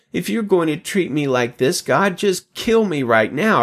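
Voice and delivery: mildly hammed-up plea to God to end it; lightly voiced Moses begging to die, stressing kill; dramatic plea. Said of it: "Moses says".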